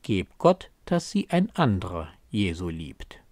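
verhalten finster, am Ende tief fallend; finstere Prophezeiung. Acted. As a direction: den Segenswunsch wie eine düstere Prophezeiung sprechen. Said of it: "nach einer finsteren Prophezeiung des Gegenteils". (leicht finster zitiert)

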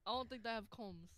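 Asian accent. Real, not acted. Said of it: "my Asian accent came out so fast".

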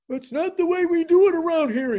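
high, loud exasperated priest; mock exasperation. Priest pestered by eager convert, exasperated mock outburst. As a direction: imitate someone driven crazy, voice pushed way up. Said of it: "I drove the poor man crazy".

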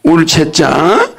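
울채자 said slowly, each syllable spelled out; 울채자 stretched out syllable by syllable; slow stressed term. Shown as a demonstration. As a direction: drag out 울채자 for the class to copy. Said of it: "울채자야".

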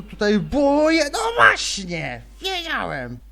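loud startled yell; excited shout. Real, not acted. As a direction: shout it out in surprise. Scared yelling at game.

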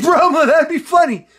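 laughing quote. Retold or imitated. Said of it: "And he's like".

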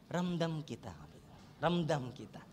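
low, soft, consoling murmur; quietly commiserate with the person beside you; lightly played, hushed sympathy; mock sympathy. Sympathetic words for the seatmate.

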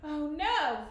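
loud, dismayed story-character cry; exclaiming. A narrator's reading. Friar learning his letter never arrived, exclaiming. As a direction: exclaim it with sudden alarm. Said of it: "Friar Lawrence exclaimed".

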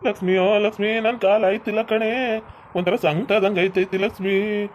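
acted suffering, words stretched out; pained moaning. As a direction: moan helplessly to your wife. Injured man moans to his wife.

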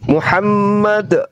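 slow, deliberate word for the convert to repeat; slow recitation lead. Shown as a demonstration. Teacher leading the convert through the shahada, slow and deliberate. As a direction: lay out each syllable slowly for him to echo. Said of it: "ikuti saya dalam bahasa Arab".

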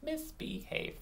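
"Misbehave" as quiet, separate syllables; counting syllables. Shown as a demonstration. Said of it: "Three syllables".

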